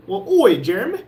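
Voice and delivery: badly faked British greeting; horrible British accent. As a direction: put on a bad British accent. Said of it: "Your British accent is horrible".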